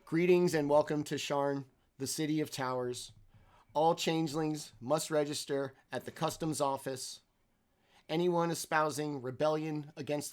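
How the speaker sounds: stiff robot announcer voice; robotic voice. Acted. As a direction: recite it like a recording. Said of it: "you hear this robotic voice".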